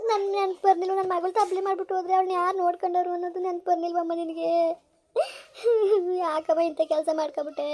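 grieving, pleading with the dead mother; a tearful daughter's lament. Acted. Daughter lamenting to her dead mother, tearful. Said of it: "ಅಳ್ಬೇಡ, please".

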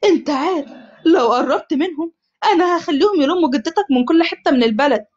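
غضب; angry. Acted. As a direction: threaten him in anger. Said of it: "حمزة بغضب".

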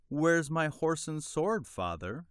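high, drawn-out call to father; eager child's cry. A narrator's reading. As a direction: cry out expectantly, like a little boy running up. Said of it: "he cried".

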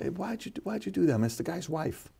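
soft, high, confiding ask; hushed question. Retold or imitated. Host quietly asks Antonio Brown about the incident, soft and high. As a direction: lean in and ask it gently under your breath. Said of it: "So I'm like".

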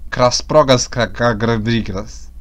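slow stumbling attempt at Russian words; reading foreign words. Shown as a demonstration. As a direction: sound out strange words haltingly. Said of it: "palavras que eu não entendo". (lendo palavras russas devagar, tropeçando)

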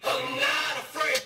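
slow, high rapper impression; hint of a rap-star voice. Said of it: "Okay," followed by a rapper's name.

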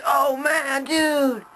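high, loud mock yell of panic; mock scream. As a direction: squeal it out like a big baby. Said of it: "he, like, screams".

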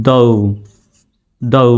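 দৌ as "dou", gh silent; isolated, careful "dou" for দৌ; model pronunciation. Shown as a demonstration. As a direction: say দৌ slowly and apart, gliding o to u. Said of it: "উচ্চারণটা কেমন?".

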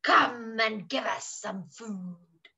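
low, very slow big-cat voice; deep, drawn-out tiger voice; roaring lions and tigers. Acted. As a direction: rumble it out like a hungry lion. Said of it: "roared the lions and tigers".

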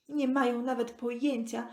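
ordinary delivery, nothing marked

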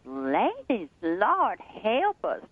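slow, high, wailing announcement that breaks into crying; loudspeaker wail. Retold or imitated. Store clerk tells shoppers a famous singer died, wailing and crying. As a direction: drag it out like a grieving store announcer. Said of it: "the woman comes on the loudspeaker and she goes".

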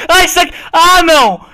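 high, loud laughing cry; laughing shriek. Real, not acted. Player squealing with laughter when the snowball hits. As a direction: squeal through laughter in disbelief.

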